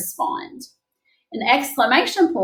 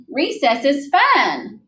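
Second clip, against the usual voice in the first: excited statement; 3 semitones higher, much slower than usual. Shown as a demonstration. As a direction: read it like you love recess. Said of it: "That's an excited statement".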